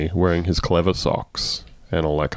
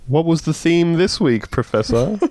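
mocking question; 9 semitones higher than usual. Mock questioning Trudeau.

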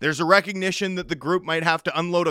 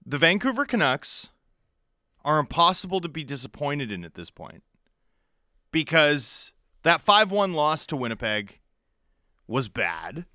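cold fury; 5 semitones lower than usual. Real, not acted. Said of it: "Calm and measured".

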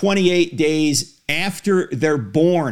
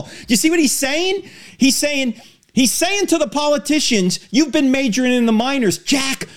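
rising outrage; 6 semitones higher than usual. Real, not acted. Outraged host pressing Jack.

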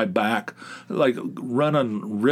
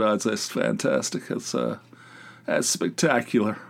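sarcastic. Retold or imitated. Sarcastic reply to bad news.

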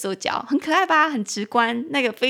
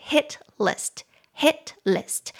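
slow model; 5 semitones higher, much slower than usual. Shown as a demonstration. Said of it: "两个字，hit，H I T".

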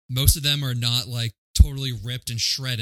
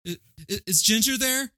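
mock embarrassed apology; 7 semitones higher than usual. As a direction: imitate a mortified caller fumbling an apology. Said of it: "how he's all embarrassed about it".

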